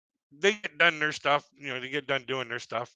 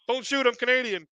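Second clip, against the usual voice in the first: much higher, put-on scared voice; mock plea; 10 semitones higher than usual. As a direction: beg them not to shoot, hammed up. Imagined opening line on stage.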